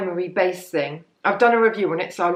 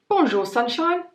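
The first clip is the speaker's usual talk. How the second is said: higher-pitched, slightly bad Cockney; bad Cockney accent; 7 semitones higher than usual. Vlogger reading out a product name in bad Cockney. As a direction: put on a jokey, badly faked Cockney. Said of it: "a slight bad Cockney accent".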